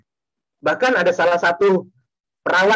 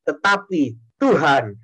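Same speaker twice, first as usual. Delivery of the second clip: scripture recital; 3 semitones lower than usual. Shown as a demonstration. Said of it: "kita ganti dengan nama kita masing-masing".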